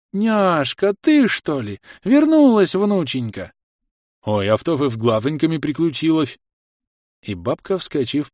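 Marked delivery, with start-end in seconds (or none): 0.1-6.4 put-on high, gushing old granny; a grandmother thrilled to see her girl; granny greeting her granddaughter; overjoyed granny.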